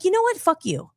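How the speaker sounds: mildly heated retold curse; angry retort. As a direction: spit the curse out, half mock. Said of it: "that's why I got mad".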